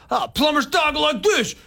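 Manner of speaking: high-pitched Italian-American cartoon plumber; old TV Mario voice. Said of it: "the Mario voice".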